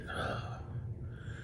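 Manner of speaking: long breathy sigh; heavy sigh. Real, not acted. Vlogger frustrated that YouTube censors him, heavy sigh. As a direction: let out a long, weary breath. Pained by being censored online.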